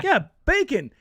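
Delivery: loud, high English accent imitation; thicker southern English accent. Woman confirms it to the vegetarian, loud English accent. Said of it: "You get a thicker accent".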